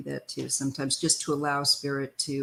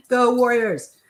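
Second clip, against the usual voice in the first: mock cheer; 5 semitones higher, 8 dB louder than usual. Cheering after mock brag.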